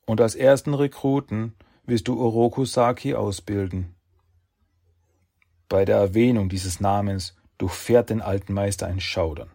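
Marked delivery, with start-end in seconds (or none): 0.0-3.9 commanding sage voice. Acted. Sages give orders.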